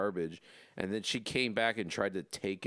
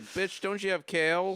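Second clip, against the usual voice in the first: much higher, louder mock diva voice; sassy beggar; 11 semitones higher, 5 dB louder than usual. Podcast cohost mocking picky homeless people, sassy high voice. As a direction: play an entitled picky beggar. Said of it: "it's like".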